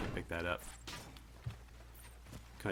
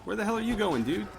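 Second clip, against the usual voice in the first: exasperated; 11 semitones higher than usual. Real, not acted. Troops wander off, exasperated.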